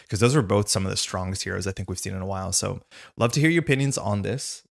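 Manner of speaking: tired, hoarse voice. Real, not acted. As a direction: voice starting to crack. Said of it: "feeling my voice fall apart".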